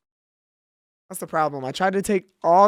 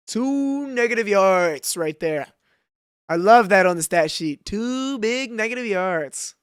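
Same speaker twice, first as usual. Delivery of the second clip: sarcastic; 2 semitones higher, 3 dB louder, slower than usual. Real, not acted. Sarcastic after loss of yards.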